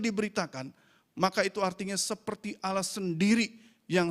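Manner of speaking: insistent sermon delivery, key words driven home; emphatic preaching. Acted. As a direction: proclaim it to the congregation with conviction. Preaches on the Gospel's power.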